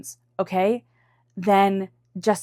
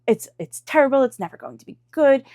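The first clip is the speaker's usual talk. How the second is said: mock despair; 5 semitones higher, 4 dB louder than usual. Voicing overwhelmed self, despairing.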